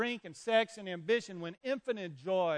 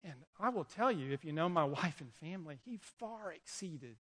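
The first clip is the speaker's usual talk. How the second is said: choked up; 4 dB quieter than usual. Real, not acted. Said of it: "that's the only emotion I've got".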